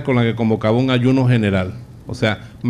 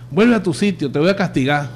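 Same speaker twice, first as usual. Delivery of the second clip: higher, lightly hammed threat; mock stern shepherd; 5 semitones higher than usual. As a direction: bark the sheep back into line, playfully. Imagined shepherd with a crook. (pastor que regaña de mentira)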